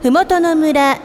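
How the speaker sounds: polite sing-song store paging voice; department store announcer. Acted. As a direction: page a customer over the store speakers. Repeated page over music.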